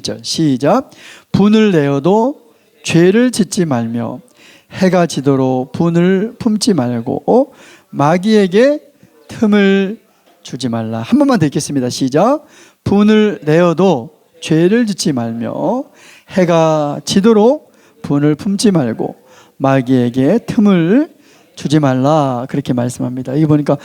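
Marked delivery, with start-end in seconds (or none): 1.3-11.0 slow, drawn-out congregational reading; scripture read in unison. Real, not acted. Leads congregation reading scripture aloud. 12.8-22.5 slow, drawn-out congregational reading; scripture read in unison. Real, not acted. Leads second unison reading of scripture.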